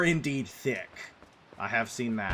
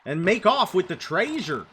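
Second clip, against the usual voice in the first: Fred from Scooby-Doo. Retold or imitated. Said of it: "It's a very specific way he says it".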